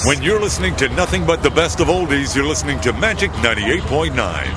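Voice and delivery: smooth, booming oldies-station ID, stretched vowels; radio announcer voice. Shown as a demonstration. Homeless man shows his radio voice to a reporter, rich announcer read. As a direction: sell the station like a golden-voiced DJ. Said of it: "Say something with that great radio voice".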